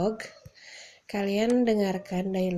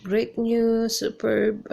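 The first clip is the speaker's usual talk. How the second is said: slow, louder, beaming congratulations; congratulating; 3 semitones higher, 5 dB louder, much slower than usual. Shown as a demonstration. Teacher modelling congratulations on good news. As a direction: celebrate their news. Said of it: "Atau bisa juga".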